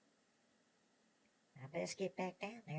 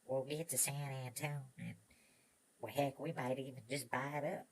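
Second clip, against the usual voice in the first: put-on chatty old prospector to his horse; 2 semitones lower than usual. Miner talks to his horse.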